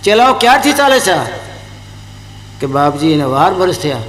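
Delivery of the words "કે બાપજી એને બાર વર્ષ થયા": meek disciple. Acted. Disciple telling his guru how long, low and humble. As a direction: confess it humbly, voice dropped. Disciple admits twelve years.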